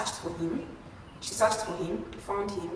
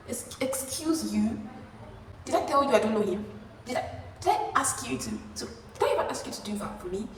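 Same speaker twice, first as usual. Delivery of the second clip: affronted comeback, pitched up at first; indignant; 4 semitones higher than usual. Retold or imitated. Confronting Hannah over the unwanted favor, indignant. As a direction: push back in offended disbelief.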